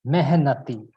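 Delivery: "Mehnati" said clearly as one word; pronunciation demo. Shown as a demonstration. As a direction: model "Mehnati" for a learner to repeat. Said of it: "to pronounce that".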